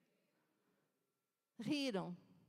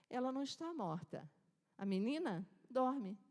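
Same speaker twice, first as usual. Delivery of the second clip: calm assurance; 4 dB quieter than usual. Acted. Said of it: "Jesus diz".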